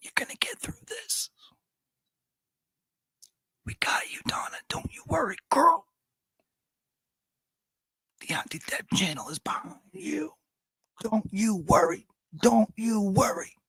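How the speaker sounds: soft, breathy whisper, very close. Acting out what to tell someone from behind at the hearing: acting out a whisper. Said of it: "so I can whisper the whole time, like".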